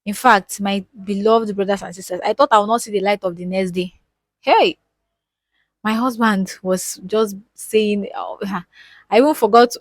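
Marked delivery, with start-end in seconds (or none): 4.4-4.8 high exclamation. Real, not acted. Reliving near-death night.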